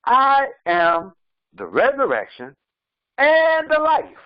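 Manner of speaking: slow, solemn scripture voice; quoting Jesus. Acted. Preacher quoting Jesus at funerals, slow and solemn. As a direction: intone the verse slowly. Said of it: "when he says".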